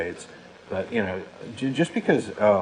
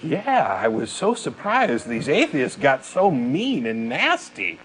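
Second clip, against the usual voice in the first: slow, higher, wide-eyed mock-innocent voice; slow put-on voice of a creationist whining about mean atheists; mocking Kirk Cameron; 3 semitones higher, slower than usual. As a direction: drag it out like a naive wounded believer. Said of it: "And Kirk was like".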